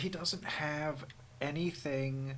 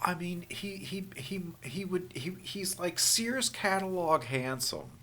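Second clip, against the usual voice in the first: whispering; 3 semitones higher, 5 dB quieter than usual. Real, not acted. Hushed mockery of actor.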